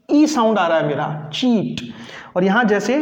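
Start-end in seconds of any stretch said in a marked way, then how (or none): 1.3-1.8 चीट with a short ee; English word cheat. Shown as a demonstration. Teacher modelling चीट, short ee. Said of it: "बोला जाएगा चीट".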